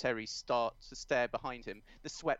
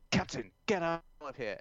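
urgent shout; 4 semitones higher, 4 dB louder than usual. Acted. Terry shouting at captain.

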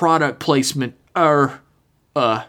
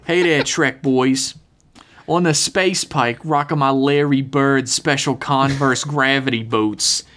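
put-on Boston accent. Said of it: "It's hard to keep a Boston accent".

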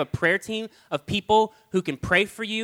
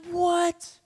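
indignant what; 14 semitones higher than usual. Retold or imitated. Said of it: "And I'm like".

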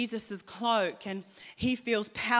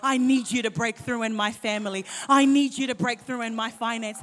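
louder and louder, pleading prayer to full preaching; rising preaching prayer; 6 dB louder than usual. Real, not acted. Preacher building a prayer before the congregation, rising to loud. Preacher praying, then driving point home.

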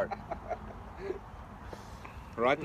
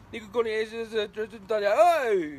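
retold quick call; 6 semitones higher than usual. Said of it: "he said it really fast".

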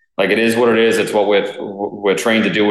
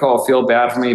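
higher-pitched mock self-pity; lightly put-on whine, pitched up; 5 semitones higher than usual. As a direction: imitate someone fishing for sympathy. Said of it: "whining and be like".

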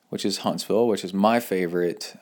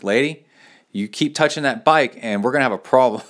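raised-pitch, firm mock warning; retold stern warning; 4 semitones higher, 4 dB louder than usual. Warning the woman touching his bike, retold stern warning. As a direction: warn her off, as if retelling it.

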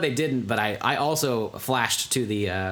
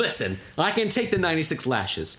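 higher-pitched mock protest; indignant; 7 semitones higher than usual. Co-host acts Jesus protesting the whipping, indignant. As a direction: object firmly, in a raised pitch. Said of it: "he got real indignant".

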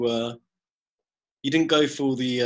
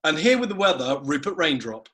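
weather presenter intro. Shown as a demonstration. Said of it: "would your preferred name be".

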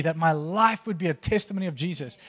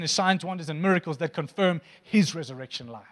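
out of breath, pushing on; winded, straining to keep preaching. Real, not acted. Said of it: "I'm out of breath, I'm trying here".

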